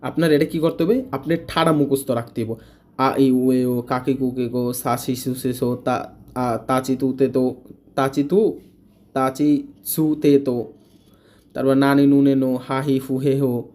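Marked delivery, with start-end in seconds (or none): 3.0-13.7 rote recitation. Shown as a demonstration. Teacher shows students how to recite all kana in a row. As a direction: rattle off the kana chart in one steady run. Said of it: "এরকমভাবে আপনাকে মুখস্থ রাখতে হবে".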